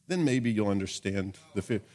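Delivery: doubtful, mocking "maybe"; sarcastic reading. Shown as a demonstration. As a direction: read it as if the promise is unlikely. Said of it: "We'll read sarcastically to make the point".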